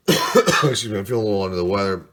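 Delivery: blocked nose, stuffy voice; talking through a stuffy cold; congested. Real, not acted. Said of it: "apologize if I sound a little congested".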